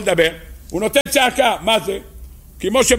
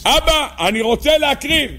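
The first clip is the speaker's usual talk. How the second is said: higher-pitched cry, no real shout; imitated pleading cry; 7 semitones higher than usual. Man begging Father to let him offer the sacrifice, mock cry. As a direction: call out to Father in a raised, imitating voice. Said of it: "צעקה של בן אדם רוצה להקריב".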